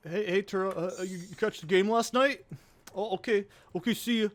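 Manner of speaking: lightly put-on Wisconsin accent, chirpy small talk. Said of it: "sound like Wisconsin folk".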